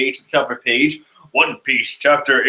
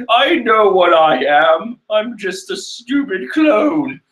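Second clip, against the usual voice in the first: mock self-pitying Chiffon; 4 semitones higher than usual. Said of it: "Chiffon's like".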